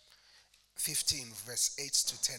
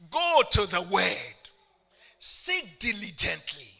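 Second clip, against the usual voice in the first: loud, higher rousing call; fervent preaching; 4 semitones higher, 10 dB louder than usual. Real, not acted. Preacher urging the congregation to the word, fervent. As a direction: rouse the crowd to answer.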